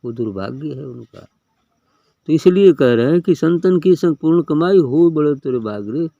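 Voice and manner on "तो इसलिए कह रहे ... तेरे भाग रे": raised, ringing recital of the couplet; forceful preaching. Acted. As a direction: declaim it loudly to the gathering. Preacher quotes a devotional couplet. (ऊँचे स्वर में दोहा पढ़ना)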